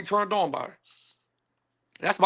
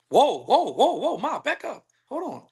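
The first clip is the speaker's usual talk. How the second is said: higher, repeated whoas to halt her; mock alarmed protest; 4 semitones higher than usual. Man halting an imagined woman's accusation, mock alarmed. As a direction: back her off, voice pitched up.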